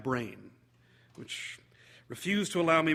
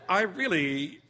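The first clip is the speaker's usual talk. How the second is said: a touch of coy, higher teacher voice, slow on shouldn't; coy acceptance; 4 semitones higher, 4 dB louder, much slower than usual. Acted. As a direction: lightly play the tempted guest giving in. Guest coyly accepts a drink.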